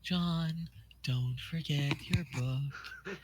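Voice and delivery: lightly voiced sweet grandma; a hint of a doting grandmother; Nana Sprite voice. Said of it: "I think this is the same Nana Sprite voice".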